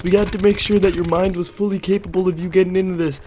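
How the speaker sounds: cartoonish tiny wizard. Imaginary tiny wizard greets the tripping narrator, in a high squeaky voice. Mini Gandalf explains.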